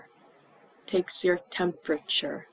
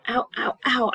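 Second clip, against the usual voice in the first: acted pain; 4 semitones higher than usual. Shown as a demonstration. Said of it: "we also learned other symptoms".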